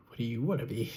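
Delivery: breathy whispered question; hushed nervous whisper. Retold or imitated. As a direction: whisper it shyly, almost to yourself. Shy reply to "what are we.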